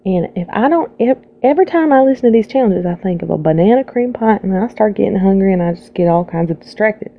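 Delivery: fast, chatty Southern ramble; quick put-on Southern twang; Southern belle. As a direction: run on breezily in a Southern accent. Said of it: "to do a sexy Southern belle".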